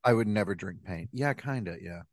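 talking through food; mouth full. Real, not acted. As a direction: speak round a bite. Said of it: "His mouth is full".

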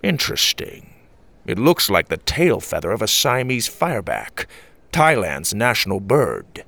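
lightly voiced musing grandfather; a hint of an old grandpa examining a clue; pondering grandpa. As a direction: grandpa thinking aloud, slowing at the end. Voices Grandpa studying the feather.

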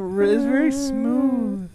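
pitched well up, smooth high voice. Shown as a demonstration. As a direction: lift the voice high and keep it smooth. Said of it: "do this high voice".

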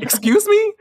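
high, loud mock outrage; shocked disbelief. Starstruck student to pop star in class, mock-shocked. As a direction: exclaim it as an incredulous question.

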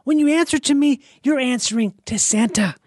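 high, slow, deliberate character voice; slow commanding elf cadence; Santa movie character impression. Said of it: "I like how he talks. I like his cadence".

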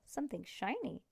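ordinary delivery, nothing marked

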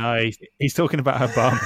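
loud, laughing correction. Real, not acted. To his co-hosts, a loud laughing correction. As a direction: shout the correction over the others. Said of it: "correcting with a laugh".

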